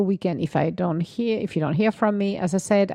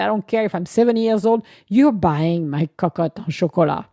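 mock demand; 5 dB louder than usual. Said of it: "I said".

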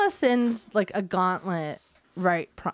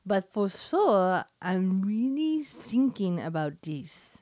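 slow, deliberate German accent; drawn-out practice German accent; much slower than usual. Shown as a demonstration. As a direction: try German R's, drawing the words out. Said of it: "It's simply plain and flat".

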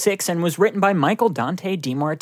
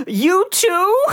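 high mock surprise. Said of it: "And I'm like".

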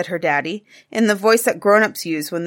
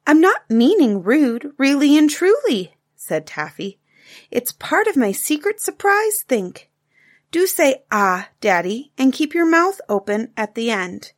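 lightly voiced excited little girl, higher; a bright child's eager question; a hint of a young girl's voice; little girl Taffy; 4 semitones higher, 3 dB louder than usual.

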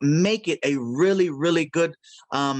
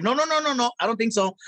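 emphatic refusal; 5 semitones higher than usual. Retold or imitated. Defending Speedy against cancellation.

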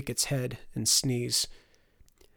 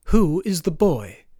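higher, loud imperious question; crowing noblewoman; 5 semitones higher, 8 dB louder than usual. A narrator's reading. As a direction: crow it out as a stilted noblewoman. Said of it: "crowed the noblewoman".

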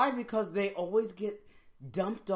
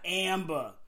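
r-less "Amber", ending in "buh"; Boston accent. Retold or imitated. Co-host repeating the name for fun, Boston accent. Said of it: "that's what I call Amber".

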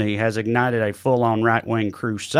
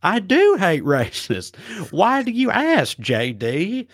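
eager Ohio viewer; 6 semitones higher, slower than usual. Retold or imitated. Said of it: "you just picture people in Ohio going".

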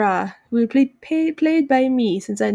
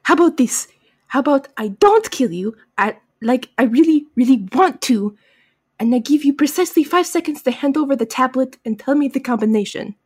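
lightly put-on villain accent; mildly hammed-up accent; Kamun Ra. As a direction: bargain with restrained menace in a fake accent. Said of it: "please forgive my horrible accent".

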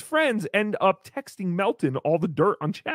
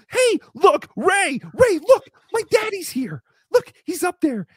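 much higher, loud calls to Ray; excited kid shouting; 6 semitones higher, 5 dB louder than usual. Retold or imitated. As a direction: yell across the room like a proud child. Mock kid calling to Ray.

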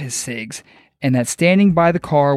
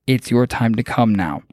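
understated alien monotone; 4 semitones lower than usual. Retold or imitated. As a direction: slightly lower monotone alien voice. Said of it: "said in a very monotone voice".

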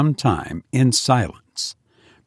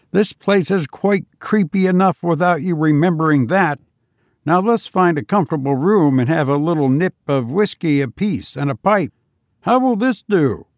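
higher-pitched voice of a reluctant companion; grumbling White; 4 semitones higher than usual. Acted. Reluctant man to his friends on a night walk to a haunted house, grumbling. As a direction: complain lightly in a raised-pitch voice.

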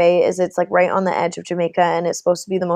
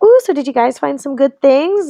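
higher-pitched friendly small talk; 6 semitones higher, 4 dB louder than usual. Retold or imitated. Tourist greets a couple back on the bus, retold friendly. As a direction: lift it into a chatty, interested question. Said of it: "I'm just being friendly".

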